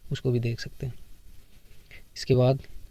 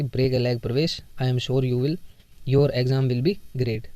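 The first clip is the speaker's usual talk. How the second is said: 1 wishing a friend luck; much slower than usual. Retold or imitated. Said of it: "मैं अपने किसी दोस्त को विश कर रहा हूँ".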